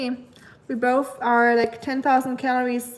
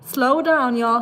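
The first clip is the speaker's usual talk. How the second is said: called out; 5 dB louder, slower than usual. Real, not acted. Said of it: "sorry, it's going too fast".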